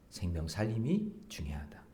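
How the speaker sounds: soft whisper; whispered emphasis. Real, not acted. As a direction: breathe the key point. Closing point whispered. (속삭이듯 핵심 강조)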